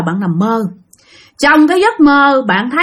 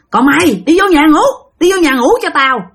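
retold stern father's order, raised pitch; la rầy; 4 semitones higher than usual. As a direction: order a son indoors, mildly scolding. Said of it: "ba của thằng Sinh la thằng Sinh". (giọng cha nghiêm, la nhẹ)

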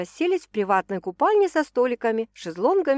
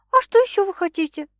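flustered; 11 semitones higher, 6 dB louder than usual. A narrator's reading. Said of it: "растерялась девушка".

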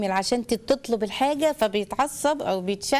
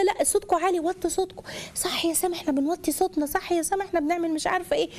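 higher, hushed and coaxing; gentle mother demo; 6 semitones higher than usual. Shown as a demonstration. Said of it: "اللي انا هعمله لك دلوقتي بوشي". (أم تهمس بلطف لتهدئة البيت)

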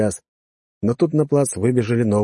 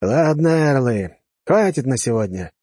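commanding officer; 4 semitones higher, slower than usual. Acted. Officer ends the drill.

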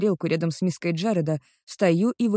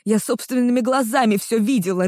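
higher, louder furious accusation; growled outburst; 4 semitones higher, 4 dB louder than usual. Acted. Girl accusing the boyfriend she saw with another, loud snarling fury. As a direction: snarl it at him, sure of what she saw. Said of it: "рычу я".

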